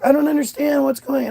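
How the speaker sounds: high, quick mock bewilderment; imitated baffled mom. Mom following dad to his car, imitated bafflement. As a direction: rush it out high, imitating confusion.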